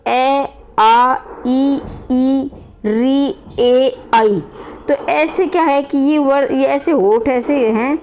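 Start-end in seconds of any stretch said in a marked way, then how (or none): 0.1-4.4 each vowel ए, आ, ई, री, आई said alone with spread lips; teacher sounds out ए, आ, ई one at a time; spread-lip vowels ई, ए, आई modelled clearly; vowel demo. Shown as a demonstration. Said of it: "जैसे उच्चारण करके देखिए".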